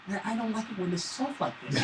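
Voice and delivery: put-on quiet, mopey kid whine; whiny little son. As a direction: drag the words like a sulky boy. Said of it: "That's really how my son sounds".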